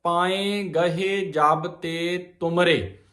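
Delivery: ਤੁਮਰੇ stressed with a falling close, then stop; pause after ਤੁਮਰੇ. Shown as a demonstration. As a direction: rest the phrase on ਤੁਮਰੇ. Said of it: "ਤੁਮਰੇ ਤੇ ਵਿਸਰਾਮ ਆ". (ਤੁਮਰੇ ਤੇ ਵਿਸਰਾਮ)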